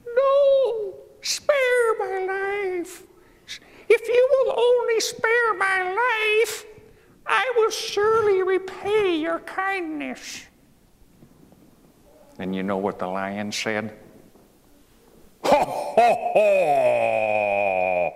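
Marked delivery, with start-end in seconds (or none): 0.1-10.5 very high, slow squeaky mouse begging; pleading mouse. Acted. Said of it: "the mouse piteously entreated". 15.4-18.1 loud booming ho ho ho; mocking lion laugh.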